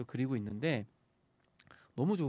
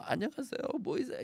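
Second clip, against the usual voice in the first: high-pitched greeting, much higher than usual; demonstrated familiar voice; 10 semitones higher than usual. Shown as a demonstration. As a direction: pitch the hello way up, as a demo of the voice listeners know. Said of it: "이런 목소리였을 텐데요".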